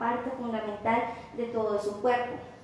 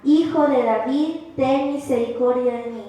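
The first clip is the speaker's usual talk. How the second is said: crying out louder; 5 dB louder than usual. Retold or imitated. Blind beggar calling louder over the crowd, loud pleading cry. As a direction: cry out to Jesus louder than before the crowd. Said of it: "clamaba mucho más".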